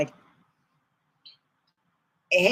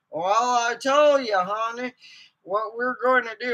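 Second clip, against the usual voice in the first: the Duke; 3 semitones higher than usual. Retold or imitated. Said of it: "sounds like the Duke".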